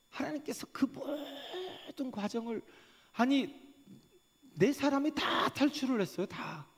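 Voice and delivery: high, loud, driving sermon delivery; fervent preaching. Acted. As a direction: preach it at full force to the congregation. Preaching at full force.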